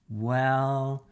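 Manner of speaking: insistent challenge; demanding. Acted. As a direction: corner her with the question. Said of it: "I demanded".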